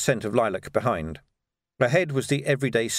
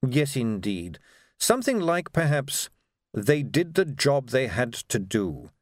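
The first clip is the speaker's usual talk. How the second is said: lightly voiced, measured aristocrat; a hint of an unruffled ruler; suave patrician, musing; 2 semitones higher than usual. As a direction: try out a slogan with slow deliberation.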